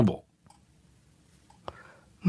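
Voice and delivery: slow, breathy whispered title read; ささやき声で. Acted. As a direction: whisper the topic like a secret. Reading the next topic title.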